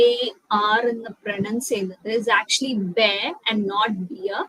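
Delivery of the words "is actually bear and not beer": "bear" said like bare, set against the wrong "beer"; "bear" rhymes with care, not with "beer"; correct pronunciation. Shown as a demonstration. Teacher to students correcting a common mistake, clear demo. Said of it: "I've heard a lot of people mispronouncing".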